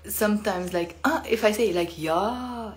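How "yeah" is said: surprised yeah. Shown as a demonstration. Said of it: "I'm surprised".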